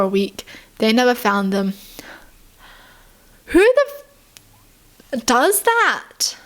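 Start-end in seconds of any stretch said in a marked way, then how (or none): 3.5-3.8 high, loud disbelieving cry; shocked outburst. Real, not acted. Shocked reaction to attack story. 5.1-6.4 slow disbelief. Real, not acted. Disbelief after shocked outburst.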